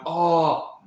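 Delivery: a hammed-up fake choke on the campaign stage; mock choking. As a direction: play-act gasping for air, mocking. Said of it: "Trump was doing this over his throat, going".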